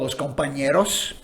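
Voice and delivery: Los Compañeros with Spanish sounds, rolled r and ñ as ny; Spanish accent. Real, not acted. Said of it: "do they say it with that accent in Australia".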